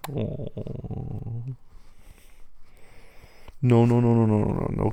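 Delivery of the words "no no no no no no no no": loud playful no no no; loud protest. Real, not acted. Stopping partner cuddling stuffing.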